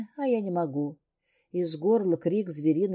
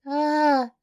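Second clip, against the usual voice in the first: high, loud short cry of fright; frightened shriek; 7 semitones higher, 5 dB louder than usual. Acted. Heroine dragged to the bed, shrieking in fright. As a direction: yelp as you are yanked off the floor. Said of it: "Вскрикиваю".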